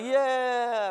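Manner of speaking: high, drawn-out carefree yeah; loud-ish, breezy cheer of relief; easy-going relief. Acted. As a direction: coast downhill on the word. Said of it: "it's a little easier".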